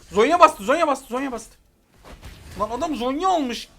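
real panicked gamer shout; alarmed shout. Real, not acted. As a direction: sound the alarm to the team. Enemy ultimate triggers, alarm.

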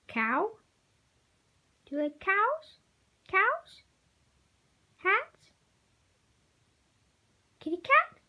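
high, loud excited questions; talking to a dog. Real, not acted. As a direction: hype the dog up.

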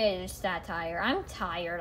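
whiny, low moan of a complaint.

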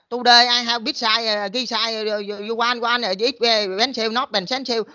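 hammed-up halting sales pitch in broken English; livestream seller's broken English. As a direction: imitate a livestream seller fumbling her English while holding up a dress. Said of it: "Mấy em giơ cái đầm lên nè".

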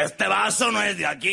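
high, loud protesting waiter; indignant waiter. Acted. Big German waiter to a cheeky customer, loud objection. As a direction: raise the voice in mock objection. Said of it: "el camarero que le dice".

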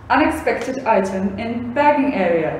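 robotic checkout announcement; flat automated store voice; machine voice. Acted.

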